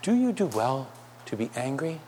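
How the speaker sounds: usual speaking voice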